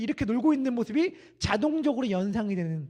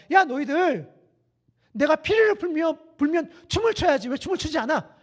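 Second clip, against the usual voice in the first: raised, higher-pitched voice of complaint; acted childish protest, pitched up; complaining children; 4 semitones higher than usual. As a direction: complain like children calling out playmates. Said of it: "아이들이 뭘 불평하는가?".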